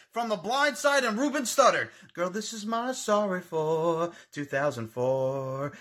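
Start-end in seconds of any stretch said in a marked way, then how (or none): 2.1-5.7 mocking voice. Mocking quote of rival.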